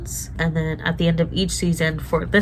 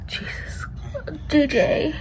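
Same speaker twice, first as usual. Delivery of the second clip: choked, whispered through tears; tearful whisper; 9 semitones higher, 4 dB quieter, slower than usual. Real, not acted. Viewer crying at a sad episode, tearful whisper. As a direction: breathe it out while crying.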